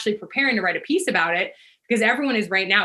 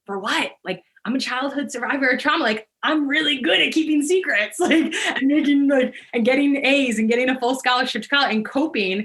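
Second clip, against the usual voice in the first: high, louder, laughing at her own irony; pitched-up disbelief at her own coping; incredulous retort; 6 semitones higher, 4 dB louder than usual. Retold or imitated. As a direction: brush off the apology with a disbelieving laugh. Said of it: "and I was like".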